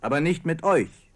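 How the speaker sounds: crowd yell. Retold or imitated. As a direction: hurl it back at the speaker. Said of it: "schrie die Menge".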